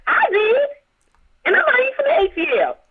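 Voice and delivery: heated. Real, not acted. Heated rant about halftime show.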